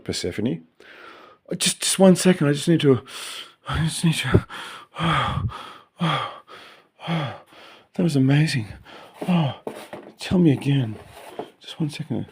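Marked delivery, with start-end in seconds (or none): 1.5-12.3 higher, hushed, breathy pretend bliss; mock afterglow. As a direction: gasp out the words as if overcome. Pretend ecstasy, breathless pause.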